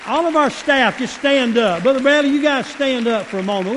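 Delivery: lifted, projected appeal from the pulpit; calling out to staff. Real, not acted. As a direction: call them up to their feet.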